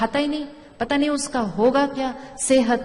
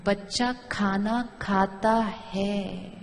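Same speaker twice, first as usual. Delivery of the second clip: slow, soft blessing; 3 semitones lower, 3 dB quieter, much slower than usual. Shown as a demonstration. Teacher turning the complaint into a blessing, slow and soft. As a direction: say it slowly as a blessing. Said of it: "ये blessing है".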